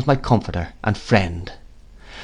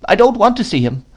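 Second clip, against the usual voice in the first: put-on high-pitched boy's refusal; reluctant child; 10 semitones higher than usual. A narrator's reading. Boy refuses to meet his new father, reluctant.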